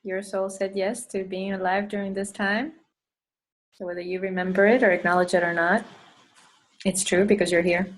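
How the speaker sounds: unhurried meditation leader, long pauses between phrases; guided meditation. Acted. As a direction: guide them gently through breath and intention. Leads a meditation.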